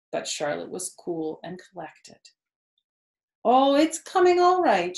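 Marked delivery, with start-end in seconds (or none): 3.4-5.0 lightly. A narrator's reading. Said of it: "she said lightly".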